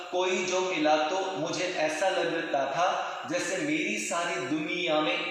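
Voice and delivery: evenly paced, clear words; clear, measured. Shown as a demonstration. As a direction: speak it clearly at normal pace. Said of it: "अब आपको सुनाई दे रहा है".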